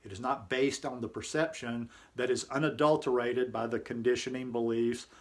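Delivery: measured, even read-aloud narration; composed reading of a reflective article. A narrator's reading. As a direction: read it out evenly, pausing between sentences.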